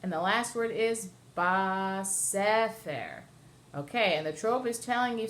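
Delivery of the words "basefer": basefer drawn out slowly, weight on SE; stress on second syllable. Shown as a demonstration. Teacher reads the last word for students, stressing SE in basefer. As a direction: say basefer slowly, leaning on the middle SE. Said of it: "the syllable is on the second".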